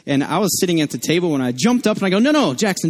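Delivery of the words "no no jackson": put-on higher-pitched urgent warning to a toddler; mildly alarmed dad stopping his child; retold parental alarm. Dad to toddler at the outlet, retold alarm.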